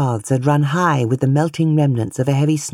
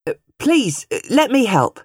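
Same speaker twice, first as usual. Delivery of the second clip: voiced younger man; 9 semitones higher, 3 dB louder than usual. A narrator's reading. Man rushes to help fallen woman.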